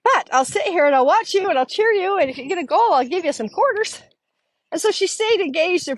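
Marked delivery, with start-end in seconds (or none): 0.0-4.0 laughing grandma. Retold or imitated. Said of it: "she starts laughing".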